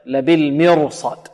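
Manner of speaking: drawn-out لبالمرصاد, thick ra before sad; tajweed example. Shown as a demonstration. Teacher cites the exception, careful slow recitation. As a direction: say لبالمرصاد slowly with heavy ra. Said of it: "تستثنى هذه الكلمات".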